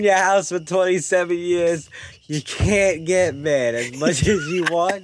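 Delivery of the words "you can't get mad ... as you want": slow, drawn-out mock instruction; teasing mantra. Lodger teasing a parent with his rule, mock mantra. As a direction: stretch it like mock parenting advice.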